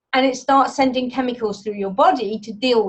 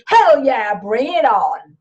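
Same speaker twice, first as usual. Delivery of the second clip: louder, fired-up "Hell yeah"; confident cheer; 4 dB louder, slower than usual. Shown as a demonstration. Speaker shows the top of the confidence spectrum, louder and fired up. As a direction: punch it out like you're ready. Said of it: "move yourself up that spectrum".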